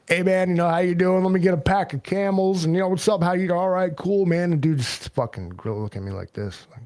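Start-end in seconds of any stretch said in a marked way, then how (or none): 0.1-2.6 mock loud New Yorker, higher and louder. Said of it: "New Yorkers all, and, like". 2.9-4.5 mock loud New Yorker, higher and louder. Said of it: "New Yorkers all".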